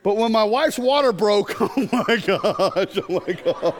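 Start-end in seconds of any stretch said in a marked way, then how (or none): 1.6-3.7 slow, drawn-out comic horror; mock aghast. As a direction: stretch it out in hammed-up disbelief. Aghast retelling of water breaking.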